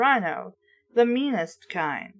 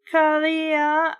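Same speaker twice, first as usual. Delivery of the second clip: battle cry; 5 semitones higher than usual. A narrator's reading. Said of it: "I let out my battle cry".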